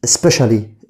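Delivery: specially said slowly with sh sound; clear pronunciation demo. Shown as a demonstration. Teacher modelling specially with sh for pupils. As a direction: model specially as spe-shally for students. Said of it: "بننطقها بصوت الش".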